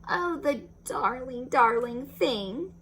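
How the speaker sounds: slow, tender coo. Acted. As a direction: coo over the baby pig. Wife coos.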